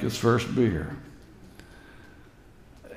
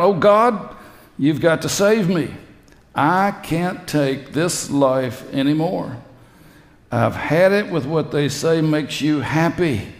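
raised, pleading voice to God; crying out to God; 4 semitones higher than usual. Retold or imitated. Pete crying out to God for rescue, pleading. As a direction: call up to God, begging. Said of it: "I cried out".

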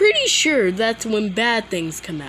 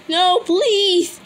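much higher, desperate plea; terrified horror victim; 10 semitones higher, 4 dB louder than usual. Acted. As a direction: beg in panic. Begging the zombie.

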